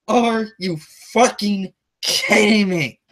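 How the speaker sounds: slow, drawn-out disbelief; can't believe what you're hearing; are-you-kidding-me disbelief; incredulous outrage. Real, not acted. Outraged at Regal.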